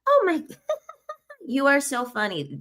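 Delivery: high squealing fake laugh, then gushing; hammed-up giggle to flatter him; fake flirty laugh. Fake laugh to hide nose.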